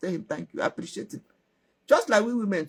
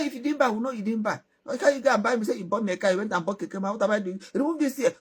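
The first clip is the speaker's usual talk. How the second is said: higher, fast, sassy retort; pitched-up mock defiance; defiant girl; 6 semitones higher, faster than usual. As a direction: snap back at him, unashamed. Girl argues back.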